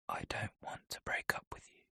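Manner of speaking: soft breathy whisper; barely voiced, so quiet he can hardly be heard. A narrator's reading. Boyfriend whispering his confession, barely audible. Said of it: "his voice so quiet I only just catch it".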